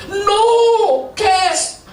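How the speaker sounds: high, flat refusal; imitating clerk. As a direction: clerk insisting on cash.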